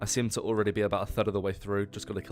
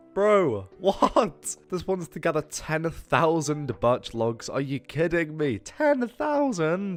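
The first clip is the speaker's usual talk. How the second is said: sudden outburst, voice jumping very high; 8 semitones higher, 6 dB louder than usual. Reading a game quest's requirements aloud: high-pitched voice. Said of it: "Don't know why my voice went so high then".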